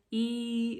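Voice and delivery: pinched nasal e sound. Shown as a demonstration. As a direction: squeeze the e through the nose. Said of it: "it can be really nasal".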